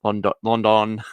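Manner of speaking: London repeated with a full 'don'; exaggerated pronunciation. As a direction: try out the over-pronounced London. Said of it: "No one says it like that".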